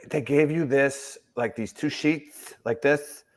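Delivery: lightly mimicked clerk, drawn-out words; a hint of the DMV clerk's put-on voice; Brandon impression. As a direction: imitate his way of talking, lingering on each phrase. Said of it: "it's just the way he talks".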